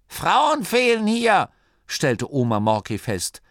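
slow, high, loud granny voice; stern granny. A narrator's reading. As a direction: declare it high and emphatic. (energische, hohe Oma-Stimme)

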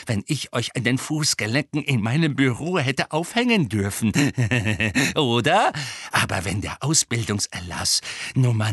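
put-on voice, swinging high and loud, with nasty chuckles; malicious ranting old grudge-holder; gleefully spiteful caretaker. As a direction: gloat over the punishments to come.

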